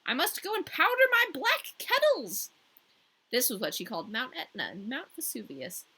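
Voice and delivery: high, loud grand queen; the Snow Queen, pitched high and grand. A narrator's reading. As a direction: voice her like a lofty ice queen. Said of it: "said the Snow Queen".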